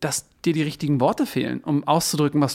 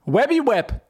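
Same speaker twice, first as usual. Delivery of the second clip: high sung-out brand name; jingle voice; 8 semitones higher than usual. Acted. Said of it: "Kannst du's noch mal sagen?".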